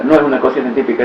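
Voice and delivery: fast throwaway repeat; fast echo of the denial; quick repeat. Shown as a demonstration. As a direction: rattle it off quickly.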